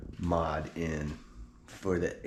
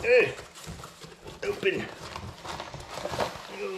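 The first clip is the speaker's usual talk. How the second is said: excited; 12 semitones higher than usual. Real, not acted. Box finally opens.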